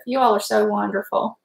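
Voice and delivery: tender whisper. Real, not acted. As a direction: whisper it with heartfelt warmth. Thanking supportive chat softly.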